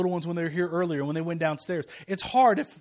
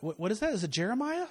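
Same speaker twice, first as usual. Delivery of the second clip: quieter voice rising high into a question; puzzled mimicry; 4 semitones higher, 3 dB quieter than usual. People hearing his son's name, mock puzzled. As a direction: imitate a baffled listener.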